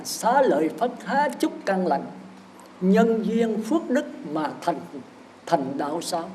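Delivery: slow, measured sutra chant; scripture recitation. Shown as a demonstration. Monk reciting scripture to lay followers, slow and measured. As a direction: intone the sutra line slowly. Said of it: "trong kinh nó thì nói là".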